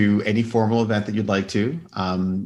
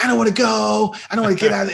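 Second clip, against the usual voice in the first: put-on much higher whining child voice; whiny kids; 12 semitones higher, faster than usual. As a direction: imitate sulky children refusing. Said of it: "my kids were like".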